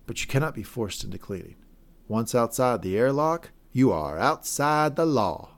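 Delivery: Mayor John. Retold or imitated. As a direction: imitate a twang, stretching out the last phrase. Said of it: "She had a certain twang to it".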